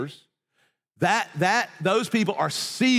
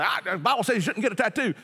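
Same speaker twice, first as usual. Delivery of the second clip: mock disapproval; 5 semitones higher, faster than usual. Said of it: "many, many people say".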